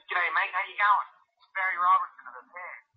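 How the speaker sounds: high, loud mock Aussie caller; bad Australian accent. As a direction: put on a hammed-up Australian accent, pitched well up. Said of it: "That's my worst Australian accent".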